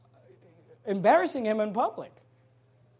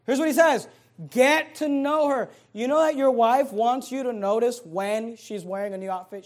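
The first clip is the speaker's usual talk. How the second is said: ordinary talk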